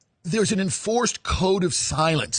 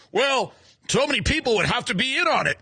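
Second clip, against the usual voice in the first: mocking dumb guy; 5 semitones higher than usual. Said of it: "That's like the dumb guy thing that everyone says".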